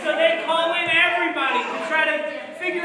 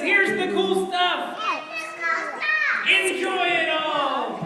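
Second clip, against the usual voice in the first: boastful king; 4 semitones higher, 4 dB louder, slower than usual. Acted.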